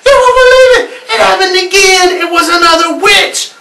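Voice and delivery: panicked thrill to her friend; shrieking excited news; frantic excitement. Acted. Girl frantic on phone.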